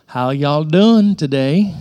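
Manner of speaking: drawn-out Texas twang greeting; Texas accent. Shown as a demonstration. Preacher likens Galileans to Texans, Texas accent. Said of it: "Y'all talk with a little accent".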